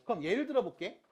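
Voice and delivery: usual speaking voice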